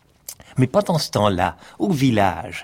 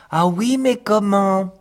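high eager question; a silly sister asking how; 9 semitones higher than usual. Acted.

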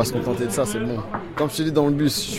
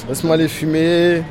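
stoned; 3 semitones higher than usual. Real, not acted. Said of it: "Je suis défoncé".

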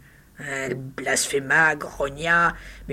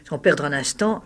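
plain reading voice

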